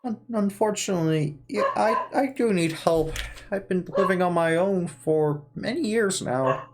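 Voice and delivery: lightly voiced old man; a hint of a frail old man. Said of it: "this is my default old man voice".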